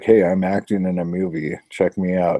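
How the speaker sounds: stiff, wooden put-on delivery. Mocking an actor's stiff performance: imitating Antonio Sabato's wooden acting. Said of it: "he's so fucking wood. He's like".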